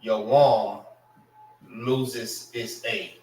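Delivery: "your warm" stressed on warm, falling; demonstrated word. Shown as a demonstration. Teacher modelling the word for students. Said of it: "You don't say".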